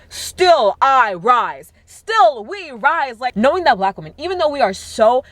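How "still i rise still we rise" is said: very slow solemn recital; reciting poetry. Retold or imitated. Speaker quoting Maya Angelou, very slow recital. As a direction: draw out each word like a poem. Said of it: "that thing by Maya Angelou".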